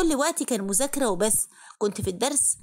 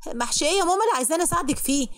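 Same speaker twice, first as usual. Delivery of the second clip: فجأة أعلى وأسرع باستنكار; تعترض على أمها بحدة وسرعة; indignant protest; 6 semitones higher, faster than usual. Acted. Daughter protests mother's chore request. (بنت مستنكرة بصوت عالي وسريع)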